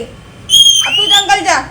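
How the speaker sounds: drawn-out angry shout; scolding shout at the misbehaving parrot; slow scolding shout. Real, not acted. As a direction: stretch every word out and yell it.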